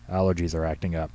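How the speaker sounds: stuffy-nosed, grumbling complaint; nasal grumble. Acted. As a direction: grumble it through a blocked nose. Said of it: "Henry grumbled in a nasal voice".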